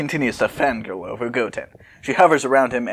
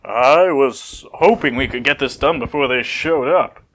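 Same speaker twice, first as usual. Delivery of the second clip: fixed character voice. Acted. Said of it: "I'm gonna fix my voice there".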